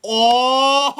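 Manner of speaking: a helpless laughing fit; real laughter. Real, not acted. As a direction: caught off guard and cracking up. Friend gets sprayed, laughing fit.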